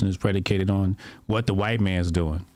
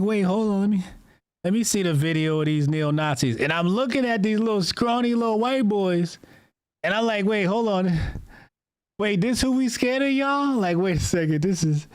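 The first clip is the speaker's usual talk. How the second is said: incredulous; 7 semitones higher than usual. Retold or imitated.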